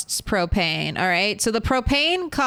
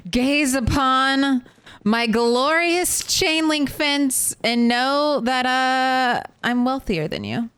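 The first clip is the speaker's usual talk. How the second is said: pompous vain hero; 3 semitones higher, slower than usual. Pretend. Boasting about fence to viewers.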